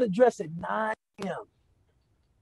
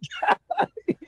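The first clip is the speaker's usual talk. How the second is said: high laugh. Real, not acted. Reacting to his own punchline.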